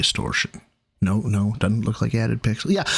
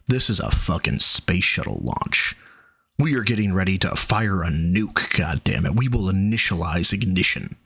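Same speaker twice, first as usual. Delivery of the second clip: deep announcer voice; 6 semitones lower than usual. Pretend. Mock launch countdown.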